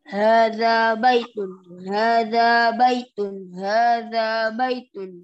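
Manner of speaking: recitation drill. Shown as a demonstration. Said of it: "Gifar dulu, silakan".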